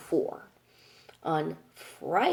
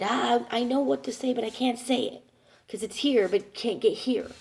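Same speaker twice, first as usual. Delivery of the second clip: higher-pitched mock exasperation; imitated frustration; 5 semitones higher than usual. Mom knows what to say but can't, imitated frustration. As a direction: mimic someone frustrated at losing the words. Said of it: "she gets very frustrated".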